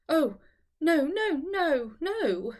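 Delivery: high, tearful no's tumbling out; distressed protest. Acted. Eleanor tearfully refusing her friend's offer of help. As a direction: refuse help, close to tears.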